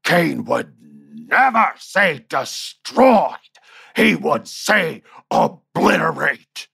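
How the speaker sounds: slow, high-pitched mock bellow, word by word; retold shout. Angry boss corrects a word in the promo, mock shouting. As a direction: imitate an outraged boss, drawing every word out. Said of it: "shout, he goes".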